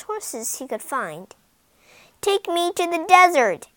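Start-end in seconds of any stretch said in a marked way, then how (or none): 2.2-3.7 ordering. Acted. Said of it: "he ordered".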